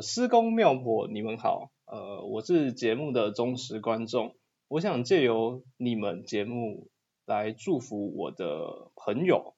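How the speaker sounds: slow, careful reading aloud; slow letter reading. Acted. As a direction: read the fan letter word by word. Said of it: "你用李济准时间的声音讲就好".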